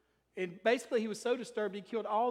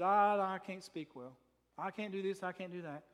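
reluctant Moses; 2 semitones lower than usual. Retold or imitated. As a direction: play a self-doubting man backing out, voice dropping. Preacher voices reluctant Moses protesting.

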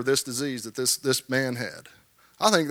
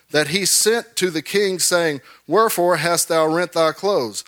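raised, declaiming King James reading; scripture reading; 2 semitones higher than usual. Acted. Preacher reads the Bible passage to his congregation, declaiming. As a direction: proclaim the old verses to the church.

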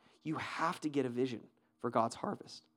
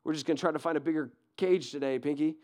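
mock timid mouse; 4 dB louder than usual. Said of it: "he didn't say, like".

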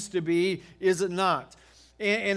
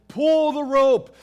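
slow, higher and louder shout; retold yell; 7 semitones higher, 9 dB louder, slower than usual. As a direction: bark the order across the yard, higher and louder. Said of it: "I'm yelling at Marcia and Nathan".

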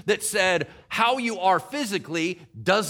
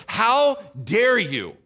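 slow, louder, indignant rebuke; protective pastor's outrage; 5 semitones higher, 3 dB louder than usual. Retold or imitated. Paul confronts those unsettling his believers, slow and indignant. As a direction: drag out each word in outrage.

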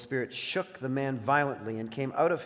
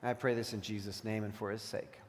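prayer; 3 semitones lower, 3 dB quieter than usual. Real, not acted. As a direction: pray it reverently, letting phrases settle. Closes a spoken prayer.

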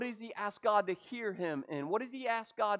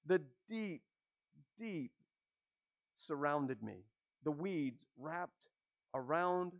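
dramatic scripture reading. Acted. Preacher reading Jonah's prayer to the church, dramatic and hushed.

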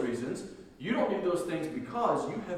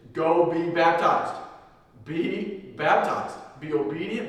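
urgent exhortation; 4 semitones higher, 6 dB louder, slower than usual. Real, not acted. Preacher urging baptism.

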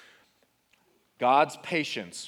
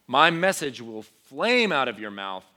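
prophetic proclamation; 6 dB louder than usual. Acted. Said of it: "he says".

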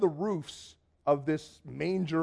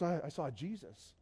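very soft, hushed repeat; awed confession; 10 dB quieter than usual. Retold or imitated. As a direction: say it quietly, as an awestruck friend would.

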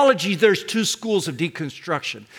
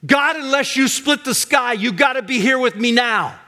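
pleading up to God, pitched high; raised, insistent prayer of lament; 5 semitones higher than usual. Acted. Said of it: "lament means".

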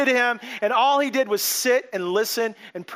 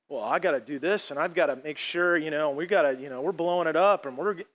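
lower, softer, rushed self-justifying mutter; an insecure ego voiced lower and softer; anxious striver; 6 semitones lower, 3 dB quieter than usual. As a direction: talk yourself into proving something. Voicing a frantic ego.

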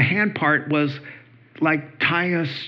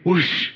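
whoosh sound; 5 semitones higher than usual. Retold or imitated. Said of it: "And then he'd go".

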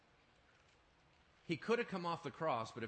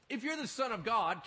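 higher and louder, a sneering Satan; taunting devil; 9 semitones higher, 7 dB louder than usual. Acted. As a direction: plant doubt like the devil. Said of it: "The devil comes up and goes".

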